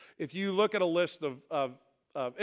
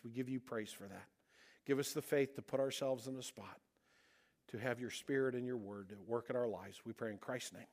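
prayer; 2 semitones lower than usual. Real, not acted. Leads closing prayer.

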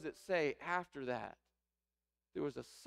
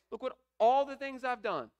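higher, louder, boastful protest; indignant older son; 10 semitones higher, 9 dB louder than usual. Acted. Older son justifying himself to his father, indignant boast. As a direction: puff up like the self-righteous brother. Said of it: "justifying it with his mind by saying".

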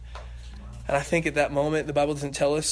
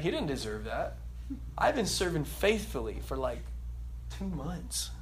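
mock entitled grumble; 2 semitones lower, 8 dB quieter than usual. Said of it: "I'm playing".

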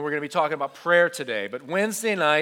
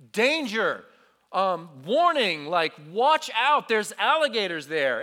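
retold hollered warning; 2 semitones higher, 3 dB louder than usual. Youth leader warning students of alligators, mild mock holler. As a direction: holler a warning, held well short of screaming. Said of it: "I'm hollering and screaming".

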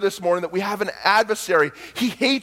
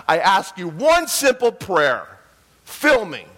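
louder, frustrated complaint to God; fed-up, demanding prayer; exasperated plea; 4 dB louder, slower than usual. Retold or imitated. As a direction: hit each point of the grievance slowly and loud.

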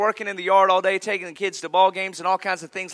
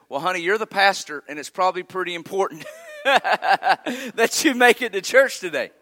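wife's punchline. Retold or imitated. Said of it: "the lady finally said".

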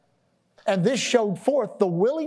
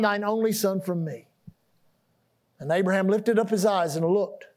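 solemn reading of the passage; scripture reading. Acted. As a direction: read it like holy writ. Reads scripture.

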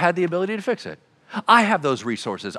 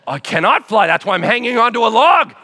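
louder, higher protest through a laugh; 6 semitones higher, 6 dB louder than usual. Acted. Child on the log protesting to God that it cannot fly, laughing. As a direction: argue back, half laughing.

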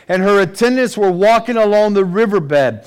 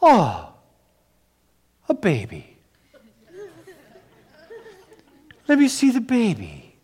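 girl acting surprised; 6 semitones higher, 4 dB quieter than usual. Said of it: "she said something like this".

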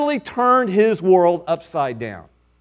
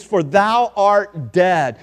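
slow solemn pronouncement; slower than usual. Shown as a demonstration. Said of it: "In the Hebrew, it literally means".

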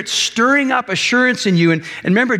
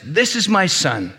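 slow, measured heavenly declaration; slower than usual. Acted. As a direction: proclaim it slowly, as a statement. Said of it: "a voice from heaven says".

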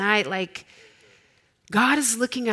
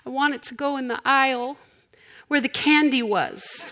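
put-on little girl voice; 6 semitones higher than usual. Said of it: "She said".

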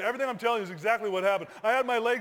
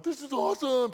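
higher-pitched retold elation; acted-out whoop of excitement; thrilled exclamation; 4 semitones higher than usual. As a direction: exclaim it mid-flight, delighted. Acted thrill while free-falling.

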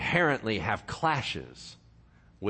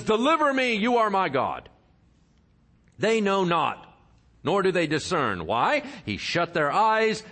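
raised, emphatic preacher's reading; emphatic sermon scripture reading; 4 semitones higher than usual. Acted. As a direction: proclaim the passage to the congregation. Reads Isaiah aloud.

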